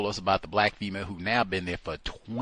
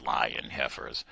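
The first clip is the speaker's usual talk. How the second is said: much lower, slow muttering; low muttered insult; 10 semitones lower, 4 dB quieter, slower than usual. Real, not acted. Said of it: "repeated insult".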